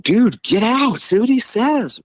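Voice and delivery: very high-pitched frantic urging; retold urgent order. Driver sends passenger to ask, retold urgent order. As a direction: send him off in a high mock panic.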